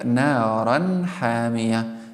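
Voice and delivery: naran hamiya with a clear, short nun; correct izhar on naran hamiya. Shown as a demonstration. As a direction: say the n of naran plainly, no lingering. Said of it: "You should pronounce like".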